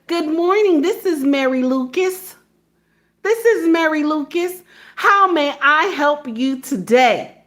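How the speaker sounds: measured, lilting receptionist greeting; Mary Lucas. Retold or imitated. Receptionist greeting a caller, courteous imitation. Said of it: "She says".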